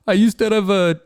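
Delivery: attempted Colombian accent, badly faked. Imitating Colombian coworker confiding in him, badly faked accent. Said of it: "I'm doing a horrible accent".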